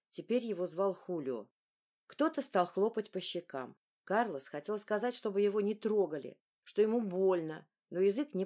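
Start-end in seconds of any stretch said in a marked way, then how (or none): none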